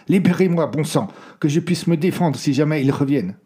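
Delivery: loud, high, insistent outburst; angry demand. A narrator's reading. Prisoner demanding to be freed in case they return, loud. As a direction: bark out the demand to be untied.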